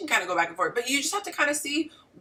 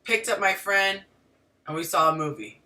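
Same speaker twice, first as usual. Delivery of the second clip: lightly imitated man giving only the bare facts; short statements, a pause between, dropping at the end; terse guy's storytelling. Guy telling his partner about his night, mock terse. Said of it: "He'll tell the story like this".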